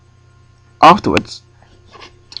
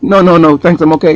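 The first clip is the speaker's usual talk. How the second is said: firm refusal; 5 semitones higher, 6 dB louder than usual. Retold or imitated. Firmly refusing the woman.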